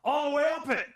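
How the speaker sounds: Al Pacino impression. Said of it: "turns around and goes".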